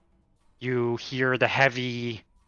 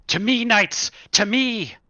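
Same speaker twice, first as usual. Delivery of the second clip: high, loud rallying call; calling knights; 11 semitones higher, 3 dB louder than usual. Acted. Knights' leader calls his soldiers to charge. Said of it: "that's when you hear the call".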